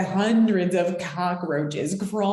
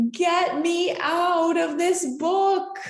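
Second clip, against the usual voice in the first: high panicked yell, voice shifted; high scream; 10 semitones higher than usual. A narrator's reading. Bookmark on shark page screams to get out. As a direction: shriek to be let out. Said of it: "and I screamed".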